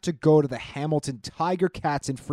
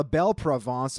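put-on French accent. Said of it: "Apologies for my French accent".

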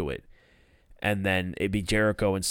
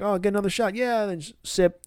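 hammed-up Matt; 9 semitones higher, faster than usual. Matt voiced at bar.

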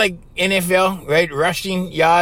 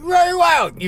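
higher, indignant call of the full name; exasperated outburst; 11 semitones higher than usual. Retold or imitated. Left alone with the guy, indignant cry of the name. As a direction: spit the name out in disbelief. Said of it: "I'm like".

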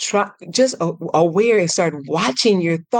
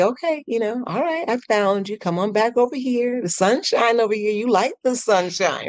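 gentle coaxing; 5 semitones higher than usual. Shown as a demonstration. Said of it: "go gently and say".

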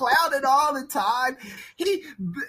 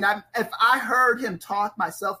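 ordinary delivery

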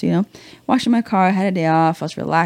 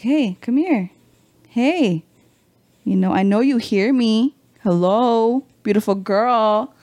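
higher, drawn-out mock catcall; imitated catcall; 3 semitones higher, slower than usual. Neighbor pestering a woman washing her car, imitated catcall. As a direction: call out teasingly as a pestering neighbor. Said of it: "catcalling me".

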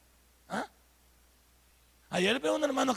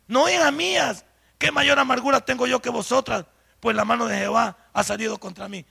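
impassioned acted plea; 8 dB louder than usual. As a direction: preach out the mother-in-law's lament at full volume. Preacher voices Noemí's bitter plea.

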